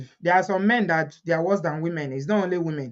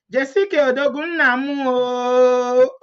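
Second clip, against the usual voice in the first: raised Igbo tune, final "oh" held long and level; Igbo intonation; 4 semitones higher, 3 dB louder, slower than usual. Shown as a demonstration. Vlogger shows followers how the comment goes, Igbo intonation. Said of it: "Igbo intonation".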